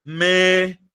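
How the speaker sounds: "médico" in three separate beats, MÉ, di, co; split into syllables. Shown as a demonstration. Teacher breaking "médico" down for pupils, syllable by syllable. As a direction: pause after each syllable of "médico". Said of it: "Se você pegar essa palavrinha aqui".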